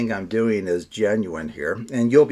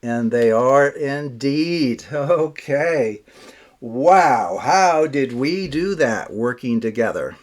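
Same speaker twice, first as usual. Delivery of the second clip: amazed; slower than usual. Real, not acted. Final reveal succeeds.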